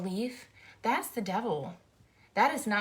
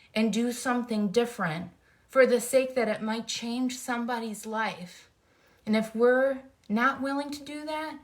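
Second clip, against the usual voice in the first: emphatic, impassioned appeal with louder bursts; fired up; 5 dB louder than usual. Real, not acted. Speaker urging followers to do their part, fired up. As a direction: drive each point home with force. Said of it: "I'm all fired up today".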